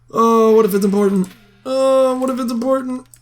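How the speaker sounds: hammed-up worry; mock panic. Anxious about new email.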